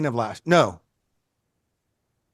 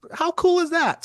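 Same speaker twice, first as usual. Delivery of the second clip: high, delighted amazement; acted-out fan excitement; impressed; 4 dB louder than usual. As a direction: marvel at it in a raised pitch. Retells reaction to studio news.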